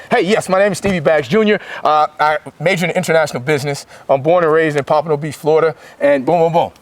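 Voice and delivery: low, measured interview voice; articulate. Shown as a demonstration. Athlete introducing himself in an interview, low and articulate. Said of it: "be able to be articulate".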